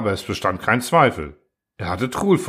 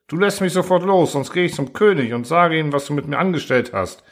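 shouting threat; 6 semitones higher than usual. Acted. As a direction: yell at him to let go. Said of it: "schrie Truhl".

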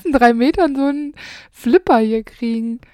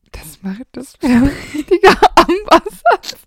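giggling whisper; 4 semitones higher, 5 dB louder than usual. Real, not acted. Reading text, giggling.

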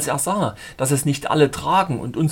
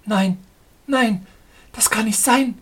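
high, louder, quick woman's no; hasty refusal; 8 semitones higher, 4 dB louder than usual. Acted. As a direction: cry out no in a hurried high voice. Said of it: "rief sie hastig".

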